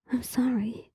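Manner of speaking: breathy whispered apology. Acted. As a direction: whisper it, barely voiced. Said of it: "he whispered".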